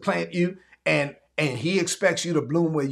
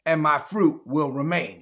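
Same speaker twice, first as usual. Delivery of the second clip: call and response; 3 semitones lower than usual. Shown as a demonstration. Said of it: "So say this".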